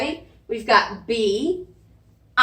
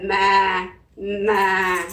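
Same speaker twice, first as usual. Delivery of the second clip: goat bleat; 4 semitones lower than usual. Shown as a demonstration. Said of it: "let me hear you say".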